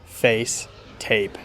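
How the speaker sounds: "face" and "tape" with the vowel gliding from "eh" to "ee"; "face", "tape" slowly, vowel starting on "eh"; American A vowel. Shown as a demonstration. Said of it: "In a lot of American accents".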